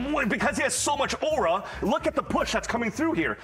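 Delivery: zoomer slang play-by-play, lightly voiced; casting a match as a Gen Z kid; ironic zoomer. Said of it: "talking like a Zoomer".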